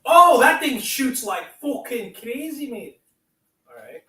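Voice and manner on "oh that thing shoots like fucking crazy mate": much higher and louder, slow and amazed; thrilled exclaim. Real, not acted. Vlogger testing the blaster, thrilled high exclaim. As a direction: marvel at the power. Toy shoots powerfully.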